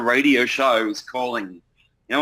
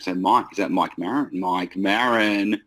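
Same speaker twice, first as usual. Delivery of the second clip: radio prize call; 4 dB louder than usual. Shown as a demonstration. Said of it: "the radio station ... the kind of vibe".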